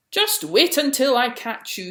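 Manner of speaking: furious chasing threat; angry call. A narrator's reading. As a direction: shout after the runaway mole. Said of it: "he called".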